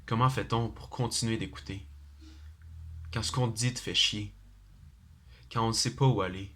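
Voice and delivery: measured recital with pauses between lines; poem recitation. Acted. Student presenting their own poem to an audience, measured poem recitation. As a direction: recite your own verse, letting each short phrase stand apart.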